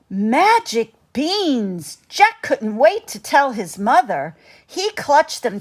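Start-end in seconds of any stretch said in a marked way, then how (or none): 0.0-2.0 amazed gasp. Acted. Jack marvels at beans.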